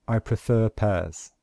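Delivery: "prefer" ends on a vowel, no R before "pears"; no R before consonant. Shown as a demonstration. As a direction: drop the R in "prefer". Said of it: "We simply say".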